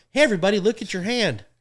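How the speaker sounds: announcer call. Retold or imitated. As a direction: call it out to the whole arena. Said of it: "I go".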